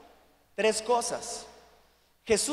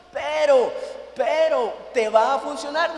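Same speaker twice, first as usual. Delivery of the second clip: louder insistent pleading; insisting loudly; 3 semitones higher, 6 dB louder than usual. Retold or imitated. Husband pressing his wife to take the shot, loud insistence. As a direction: push the point louder.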